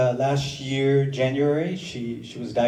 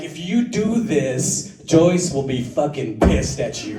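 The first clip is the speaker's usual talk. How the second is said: deadpan warning. Retold or imitated. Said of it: "the most important thing in the bottom".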